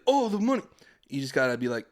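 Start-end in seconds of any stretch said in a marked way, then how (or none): 0.1-0.6 much higher, louder mock greed; greedy excitement. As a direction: pretend to grab for the cash. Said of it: "you can't be like".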